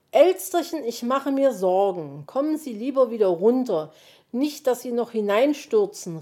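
loud, urgent concerned calling; worried call. A narrator's reading. Fox calling to magpie on the roof, worried shout. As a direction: call out anxiously, starting high on the name. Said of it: "rief der Fuchs von oben".

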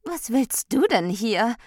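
high, loud, provoking question; cheeky challenge. A narrator's reading. Freiheit challenges Recht at the party, cheeky. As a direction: challenge the intruder loudly.

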